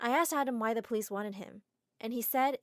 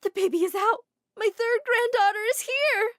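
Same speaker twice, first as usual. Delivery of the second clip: overjoyed grandmother; cheerfully; 12 semitones higher, 8 dB louder than usual. Acted. Mom announces the baby to everyone, high and joyful. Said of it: "Mom said cheerfully".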